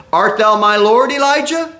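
Obadiah's question rising high on Elijah; awed question. Obadiah bowing before Elijah, high awed question. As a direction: fall on your face and ask in wonder.

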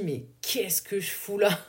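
slow, drained mutter to herself; sighing at herself, wondering why she's here; weary lost self-talk. Retold or imitated. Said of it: "où je me dis".

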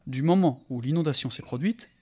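voix de conteur posée; lecture de récit. A narrator's reading. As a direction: lire le roman à voix haute. Reads the novel aloud. (narration calme et posée)

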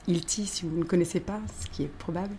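unvoiced aside, barely there; whispered aside. Real, not acted. Aparté chuchoté sur Hilti. (aparté chuchoté)

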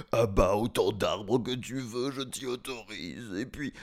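lightly voiced giant, pleading; begging giant. Frightened giant pleading with the boy, begging. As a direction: beg for mercy, fussing.

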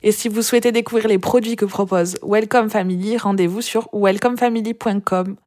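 scripted podcast presenter delivery; episode intro read. Acted. Host introducing the guest's challenge to listeners, presenter read.

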